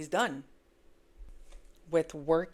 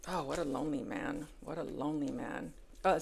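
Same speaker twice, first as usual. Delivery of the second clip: usual speaking voice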